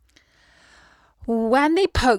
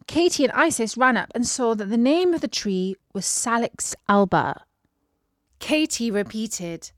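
ordinary delivery, nothing marked

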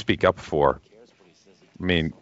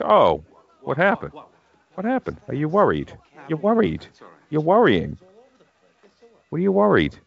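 teasing worried voice; 7 semitones higher than usual. Retold or imitated. Voicing worried Henry mockingly.

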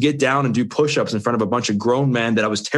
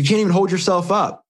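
much higher, ribbing trainer voice; mock coach taunt; 9 semitones higher than usual. Trainer mocking his friend who can't hold a push-up, high teasing voice. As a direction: needle him like a blunt coach. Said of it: "He's like".

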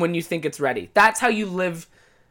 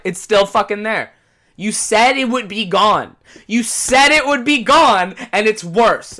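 louder, slower accusing rant; mock indignant complaint; 5 dB louder than usual. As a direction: throw the broken promise back at her. Angry retort to the girl.

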